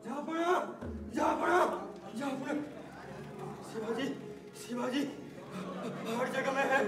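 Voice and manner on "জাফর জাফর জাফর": high urgent calls of a name; calling out. Acted. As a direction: call the name again and again.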